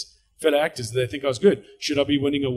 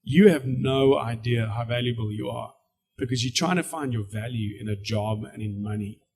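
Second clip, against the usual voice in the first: calm, slow, quieter voice of God; 4 dB quieter than usual. Retold or imitated. God gently correcting the frustrated speaker, calm and slow. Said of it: "the Lord speaks to me and he says".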